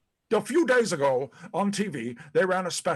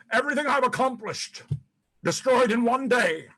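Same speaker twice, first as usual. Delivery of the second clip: distraught; 7 semitones higher than usual. Acted. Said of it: "Pat, I'm still distraught".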